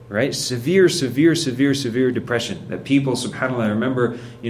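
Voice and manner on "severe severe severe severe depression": "Severe" hammered again and again, first one lifted; repeated emphasis. Shown as a demonstration. Teacher stressing the illness to the class, insistent. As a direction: drive home "severe" with each repeat.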